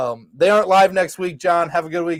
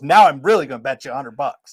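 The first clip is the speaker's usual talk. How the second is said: laughing mock shout; 4 semitones lower than usual. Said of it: "Guy goes".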